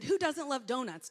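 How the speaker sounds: loud, bright rhetorical question; cheery donut question. Retold or imitated. Speaker asking allergic kid about donuts, loud cheery. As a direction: toss it out cheerily. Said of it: "I think I said".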